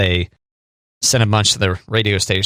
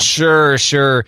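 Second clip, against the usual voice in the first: sarcastic; 3 semitones higher than usual. Real, not acted. Co-host doubting the burrito story, sarcastic. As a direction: agree as if humoring a tall tale. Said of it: "sarcasm alert for the children".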